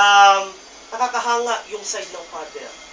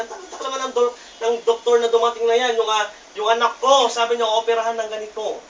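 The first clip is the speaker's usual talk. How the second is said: impatient, slightly raised voice at the nurses; mild retold yell; 4 dB louder than usual. Anxious father scolds the nurses over the late doctor, mild mock yell. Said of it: "pinagbubulyawan na".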